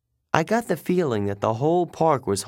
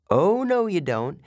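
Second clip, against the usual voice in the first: sharp exclamation; 7 semitones higher than usual. A narrator's reading. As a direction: snap it to stop him. Annabeth snatches the scarf.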